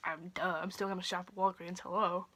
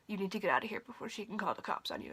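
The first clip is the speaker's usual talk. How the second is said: urgent hushed whisper; 5 dB quieter, faster than usual. Retold or imitated. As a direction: whisper it fast, like a warning. Coworker secretly warning her out.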